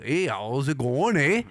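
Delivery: lightly put-on Canadian accent, rising on the "eh"; exaggerated Canadian accent. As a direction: lay on a mock Canadian accent. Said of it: "try to accentuate an, uh, a Canadian accent".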